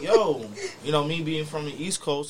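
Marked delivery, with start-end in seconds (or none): 0.0-0.4 mock shout, pitched way up; retold yell. Retelling shouting at a scooter rider, mock high yell. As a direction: call out sharply at the driver, much higher.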